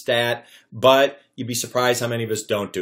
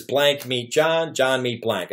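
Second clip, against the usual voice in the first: slow template read; much slower than usual. Shown as a demonstration. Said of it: "it says".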